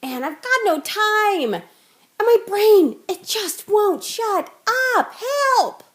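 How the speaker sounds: high, strained, desperate plea; frazzled overwhelmed mom. Acted. Overwhelmed parent begs viewers for meditation help, high and frantic. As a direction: play a parent at the end of her rope, crying out for help.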